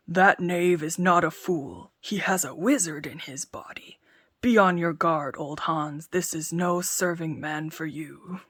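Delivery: loud giant muttering warnings to himself; uneasy giant. Acted. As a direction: giant scares himself about the tailor. Giant's fearful musings.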